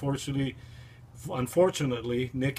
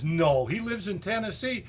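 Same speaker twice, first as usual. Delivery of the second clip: playing dumb; 8 semitones higher than usual. Waitress playing along.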